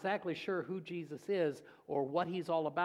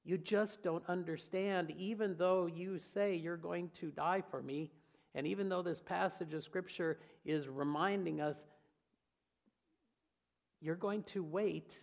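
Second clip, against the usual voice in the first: gentle head-shake; 4 dB quieter than usual. Retold or imitated. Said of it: "Jesus just shaking his head".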